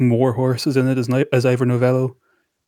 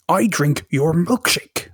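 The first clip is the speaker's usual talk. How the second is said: Daniel Plainview impression; 5 semitones higher, slower than usual. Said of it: "There Will Be Blood quote".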